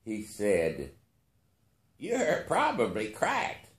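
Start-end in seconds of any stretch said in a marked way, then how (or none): 2.0-3.7 put-on slow, higher, curious old billionaire; curious old man. A narrator's reading. Billionaire leaning toward narrator, slow and curious. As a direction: wonder aloud if he's mad. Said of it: "with some curiosity in his expression".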